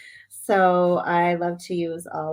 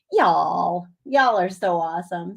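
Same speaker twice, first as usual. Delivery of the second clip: mock Southern accent; 3 dB louder than usual. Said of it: "See, I'm trying".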